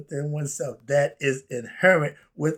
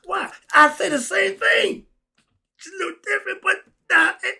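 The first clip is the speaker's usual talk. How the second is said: excited; 6 dB louder than usual. Real, not acted. Excited that it matches his view.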